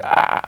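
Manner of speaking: drawn-out mock scream; retold pain cry. Storyteller as the hero's fingers are bent, mock scream. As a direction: cry out in pain without real volume.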